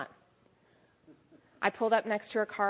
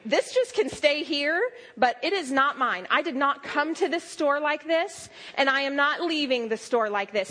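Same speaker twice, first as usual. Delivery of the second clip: loud, higher, firmly refusing; out loud declaration; 4 semitones higher, 4 dB louder than usual. Retold or imitated. Preacher retells rebuking the headache aloud, loud and laughing. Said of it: "I said out loud".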